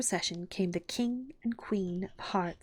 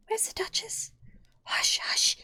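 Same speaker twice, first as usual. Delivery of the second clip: anxious whisper; low, hushed; 14 semitones higher, slower than usual. A narrator's reading. Rabbit looking anxiously over his shoulder, hushed. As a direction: hush her nervously under your breath. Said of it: "in a low, hurried tone".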